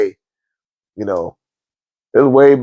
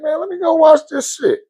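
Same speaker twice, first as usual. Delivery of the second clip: eager quote; 14 semitones higher than usual. Retold or imitated. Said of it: "was like".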